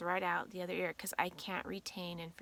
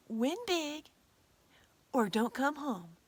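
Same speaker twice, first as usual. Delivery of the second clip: mock stern order; 3 semitones higher than usual. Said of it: "I'm always like".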